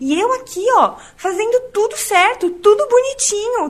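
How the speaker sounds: angry, indignant tone. Speaker retells her reaction to someone doing many things wrong; acting out being irate. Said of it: "eu tava muito irada".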